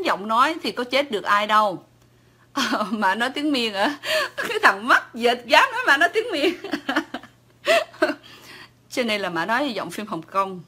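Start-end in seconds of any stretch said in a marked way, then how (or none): 4.2-6.5 high, loud, laughing through the words. Real, not acted. Mocking a commenter's insult. 7.6-8.1 a shrill burst of laughter, much higher; high-pitched laugh. Real, not acted. Laughing at a commenter.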